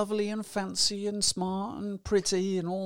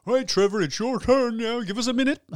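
louder, higher bossy host call; brisk chairperson voice, a little louder and higher; meeting host calling on Trevor; 7 semitones higher, 6 dB louder than usual. Retold or imitated. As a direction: call the next person up in an online meeting. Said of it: "you're gonna sit round the screen and go".

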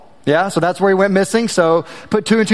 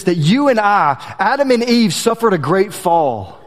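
earnest sermon delivery, slowing on key lines; preaching. Acted. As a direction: preach it with rising conviction. Preaches the gospel after story.

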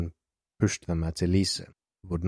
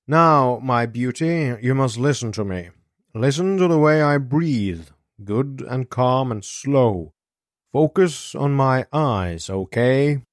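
soft, high voice; 5 semitones higher than usual. Acted. Doctor calming Elisa's breathing, soft high voice. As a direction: coax gently in a raised, unhurried voice. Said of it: "speaking in a soft, high voice".

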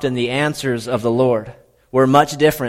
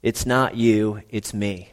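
breakup line; 2 semitones lower, 4 dB quieter, slower than usual. Pretend. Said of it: "the Lord's breaking up".

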